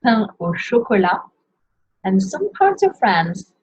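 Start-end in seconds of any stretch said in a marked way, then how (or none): 0.0-1.2 "Pain au chocolat" ending on an open la, no T; nasal "Pain", then let "chocolat" end on the vowel, falling; silent T. Shown as a demonstration. Teacher warning not to pronounce the T, French with silent T. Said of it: "Don't pronounce the T".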